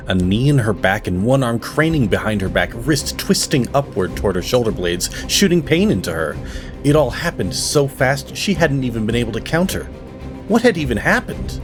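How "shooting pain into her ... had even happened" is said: high-pitched, breathless-paced alarm; urgent narration. A narrator's reading. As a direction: narrate the shock of a sudden attack. Narrator tells a sudden attack.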